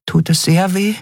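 small, high-pitched fairy asking carefully; cautious. A narrator's reading. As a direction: ask gingerly in a tiny high voice. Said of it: "fragte Nelen vorsichtig".

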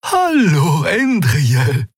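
high, cheery hello; good-humoured greeting. A narrator's reading. Friend arriving with breakfast for the pilot, good-humoured. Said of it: "Sie blinzelte gut gelaunt".

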